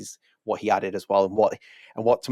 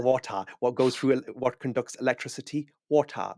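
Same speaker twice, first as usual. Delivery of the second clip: higher-pitched quizzing villain impression; Wolfenstein villain; 5 semitones higher than usual. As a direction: play a game villain posing a riddle. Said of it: "reminds me of the guy from Wolfenstein".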